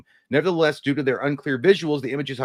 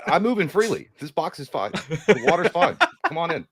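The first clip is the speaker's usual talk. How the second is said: higher, laughing through words; laughing joke; 5 semitones higher than usual. Pretend. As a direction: laugh while you reassure. Joking reply, laughing.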